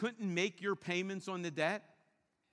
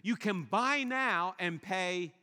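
sales slogan; 4 dB louder, slower than usual. Retold or imitated. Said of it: "retailers have come up with".

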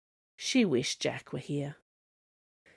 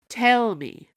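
louder, higher growled challenge; 6 semitones higher, 6 dB louder than usual. Acted. Snow Queen challenging the princess, growling. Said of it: "growled the Snow Queen".

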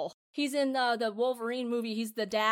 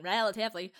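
"relatively" with Australian vowels; Australian accent. Shown as a demonstration. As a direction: slip into a mock Australian accent. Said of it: "I almost went Australian".

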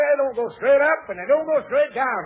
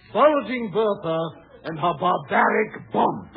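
announcer voice; 2 semitones lower, slower than usual. Acted. Announcing a marquee billing.

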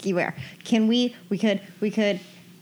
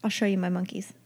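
whispering. Real, not acted. Whispered aside.

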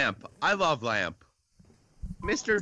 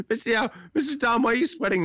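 mock student voice; 5 semitones higher than usual. Mocking student voice to teacher.

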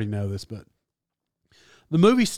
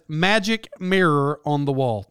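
"Magic" landed first, slowish; stress on magic. Shown as a demonstration. Revealing the real line to viewers, stressing magic. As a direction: hit the word magic. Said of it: "It actually says".

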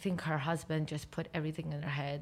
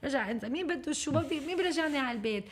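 eager calling out; 6 semitones higher, much faster than usual. Retold or imitated. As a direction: call out across the office, keen to help. Eager teen volunteering at office.

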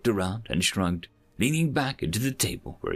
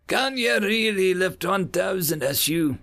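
shouting; 10 semitones higher, 4 dB louder than usual. A narrator's reading. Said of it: "another voice shouted".

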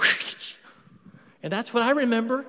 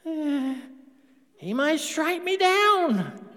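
mock fearful; 6 semitones higher, much slower than usual. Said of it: "That's a lie from the devil".

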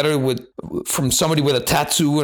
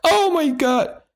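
much higher, a scandalized mock gasp; mock shock; slower than usual. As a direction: clutch your pearls in pretend horror. Mock shock at his swear.

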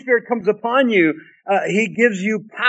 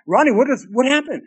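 mock puzzled; 5 semitones higher than usual. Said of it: "somebody says".

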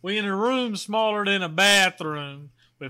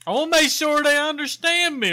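loud, higher, overly careful speech; slow Julian impression; 8 semitones higher, 6 dB louder than usual. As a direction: exaggerate a slow talker. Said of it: "That's how slow Julian is".

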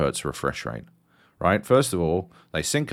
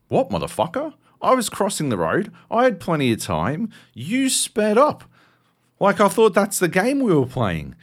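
high, indignant retort, pitched up; mock angry yell; 11 semitones higher, 4 dB louder than usual. To the driver in the street, high indignant yell. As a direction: throw it back at him, outraged.

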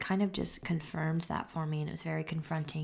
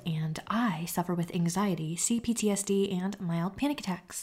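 lively, over-keen host delivery; trying too hard to be listenable; annoying presenter voice. Shown as a demonstration. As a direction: demonstrate a strained, unrelaxed podcast voice. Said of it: "in that very annoying voice".

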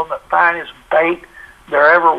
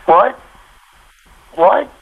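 surprised; 5 semitones higher than usual. Retold or imitated. Shocked caller reacts to question.

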